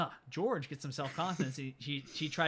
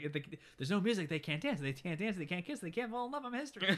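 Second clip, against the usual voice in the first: mild mock panic; 5 semitones higher than usual. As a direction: pitch climbing through a frantic explanation. Marty explains in a panic, retold.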